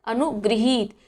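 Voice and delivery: अनुगृहीत with ri after ga; correct pronunciation. Shown as a demonstration. Teacher modelling अनुगृहीत for exam students. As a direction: say अनुगृहीत clearly, gri not gra. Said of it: "शब्द क्या होता है".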